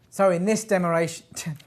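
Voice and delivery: stuck repeating the line, giggling; trying not to laugh; laughing through it. Real, not acted. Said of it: "I can't stop laughing".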